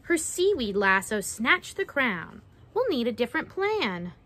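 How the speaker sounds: measured picture-book storytelling; reading to children. Acted. Narrator reading a mermaid-trapping rhyme to children, storytelling. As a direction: read it out with a lilting rhyme.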